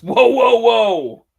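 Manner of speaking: high, loud, imitated protest; loud interjection. Retelling Cody stopping Cena mid-insult, protesting loudly. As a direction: cut in with loud, high whoas. Wrestler cuts the other off, retold.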